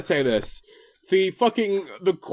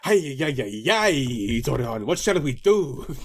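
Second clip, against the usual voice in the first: put-on Spanish accent; 6 semitones lower, slower than usual. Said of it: "he's Spanish in it".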